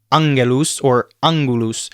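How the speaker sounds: ANGELUS said "ang-geh-loos", hard g; hard g inside angelus and angulus. Shown as a demonstration. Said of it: "It is also hard in the middle".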